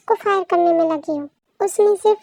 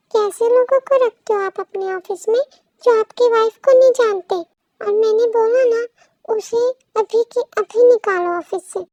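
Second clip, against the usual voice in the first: louder, indignant wife insisting; angry demand; 5 dB louder than usual. Acted. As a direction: demand the firing, voice raised. Wife angrily demands firing.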